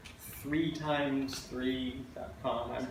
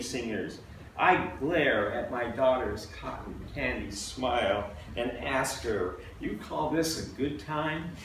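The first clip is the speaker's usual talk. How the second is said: measured, emphatic poem recital; poetry reading; 4 semitones higher, 6 dB louder, slower than usual. Acted. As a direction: read it out as a poem to an audience. Reads own poem to audience.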